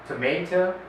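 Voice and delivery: tomato said to-MAY-to; American tomato. Shown as a demonstration. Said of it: "in American accent".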